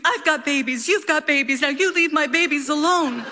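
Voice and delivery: mock scream. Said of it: "punches it and screams".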